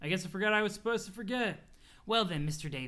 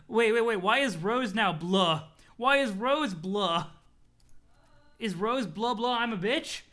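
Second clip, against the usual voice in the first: amused disbelief; 2 semitones higher, 6 dB louder, slower than usual. Real, not acted.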